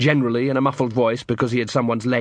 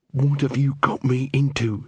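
growled. Acted. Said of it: "she growled".

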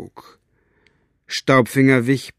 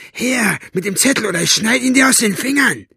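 high, loud, fast menacing threat; mustache twirling villain; 11 semitones higher, 3 dB louder, faster than usual. Acted. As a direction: threaten her like a cartoon villain. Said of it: "zischte er sie an".

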